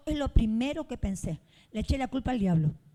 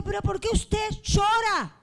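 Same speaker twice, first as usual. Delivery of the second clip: loud puzzled question; 8 semitones higher, 4 dB louder than usual. Retold or imitated. Pastor confronts the crying relative.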